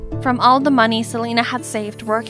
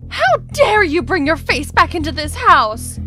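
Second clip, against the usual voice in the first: indignant, higher-pitched outburst; enraged; 4 semitones higher than usual. Acted. Missus Sanchez confronting someone back at the house, enraged. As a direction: lash out at an unwelcome arrival. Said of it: "flying into a rage".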